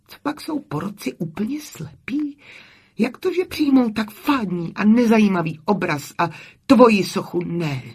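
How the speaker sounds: high-pitched, incredulous indignation; indignant protest. A narrator's reading. Camille protests the jury's verdict to her friend, indignant.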